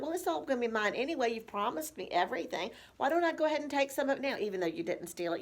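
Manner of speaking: rushed, fed-up mock comeback; frustrated. Adult child gives up arguing with parent, frustrated. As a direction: rattle it off in exasperation. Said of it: "You've just gotten frustrated".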